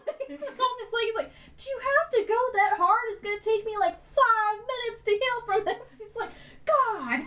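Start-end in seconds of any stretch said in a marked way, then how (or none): 1.6-5.9 high, loud, exasperated griping; hammed-up whining hero; whiny complaint. Flash complaining about his leg. 6.7-7.2 high, loud exasperated groan; hammed-up exasperated cry; pained groan. Flash groaning over his leg.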